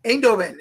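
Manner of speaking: Eindhoven said clearly as "AYND-ho-ven"; demonstrated pronunciation. Shown as a demonstration. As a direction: show how locals pronounce Eindhoven, first syllable "aynd". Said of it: "That's how they pronounce it".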